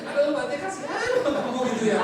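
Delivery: mock pity. Monk teasing a woman in the audience, mock pity. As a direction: tease her with exaggerated pity.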